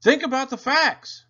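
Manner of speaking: high, loud scolding; boy scolding his classmates, high and loud. A narrator's reading. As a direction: scold the kids like a know-it-all. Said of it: "he scolded".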